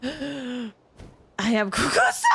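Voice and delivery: slow, drawn-out proud announcement of being the Kukusaur; mock creature announcement. Streamer pretending to be the Kukusaur, slow and grand.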